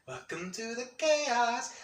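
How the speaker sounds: high, slow dramatic proclamation; movie-style announcement. Acted. Quoting a movie about the chat, theatrical. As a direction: draw out the welcome theatrically. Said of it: "It is the legit Welcome to the Chaos".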